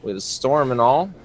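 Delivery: lightly voiced friendly backwoods fella, easygoing; a hint of a folksy stranger, unhurried welcome; folksy country mechanic. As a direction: play a chummy small-town grease monkey. GM voices Judas greeting players.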